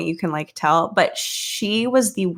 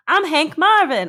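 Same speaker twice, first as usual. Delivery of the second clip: higher, badly faked British accent; 7 semitones higher than usual. Imitating British spouse's rhyming slang, bad British accent. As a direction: imitate a British partner, not very well. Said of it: "I can't even do a British accent".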